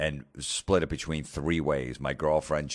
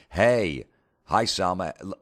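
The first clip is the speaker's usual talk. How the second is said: nervous fan greeting; 3 semitones higher, 3 dB louder than usual. Pretend. Imagined meeting with Salma Hayek.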